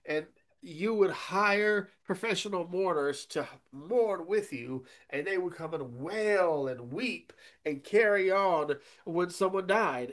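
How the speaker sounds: normal talking voice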